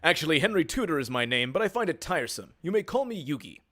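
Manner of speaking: lightly voiced anime hero; formal, heroic introduction in a dub-actor imitation; Dan Green. Prince telling the duelist his name, lightly imitated hero voice. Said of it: "I am channeling my best Dan Green".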